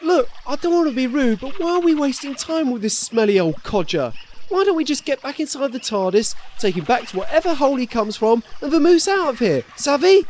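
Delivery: put-on light Victorian cockney accent; cheeky Victorian cockney patter. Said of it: "stop speaking like a Victorian cockney".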